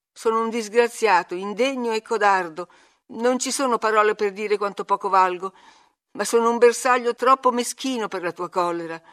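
self-abasing, anguished appeal; acted wretched outpouring; desperate pleading. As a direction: plead with her not to be angry. Frightened boy begs cousin, abases himself.

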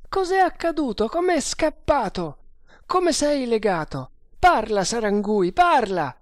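high, frantic questioning; beside himself. A narrator's reading. Guard demands answers from the bound man, frantic. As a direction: fire questions, building to a loud demand. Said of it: "disse Bharata fuori di sé".

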